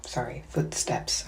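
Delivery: careful retainer-mangled repeat; wearing a retainer. Real, not acted. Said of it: "I have my retainers in".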